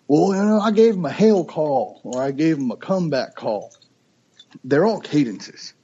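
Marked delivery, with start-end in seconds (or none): 0.1-3.7 hunting show host. Retold or imitated. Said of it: "you might hear on your favorite hunting show".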